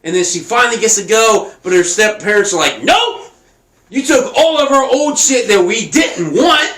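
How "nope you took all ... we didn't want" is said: a mock-outraged shout that jumps higher; hammed-up stepmother snapping at Cinderella; stepparents yelling.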